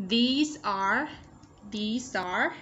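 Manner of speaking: "These are" joined by a z sound; "these are" run together as one word; linked sounds. Shown as a demonstration. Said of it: "nối âm".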